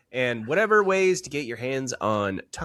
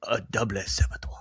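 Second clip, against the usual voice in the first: whisper; 3 semitones lower, faster than usual. Acted. Joking whispered punchline.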